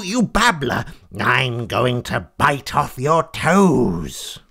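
slow, drawn-out threat; a hint of menace, stretching each word; lightly voiced angry cat. Fleecy threatens the intruding frog, slow menace.

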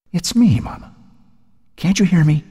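high, eerie voice calling Mama; a ghost calling to her mother from the breeze. A narrator's reading. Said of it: "The voice was louder now".

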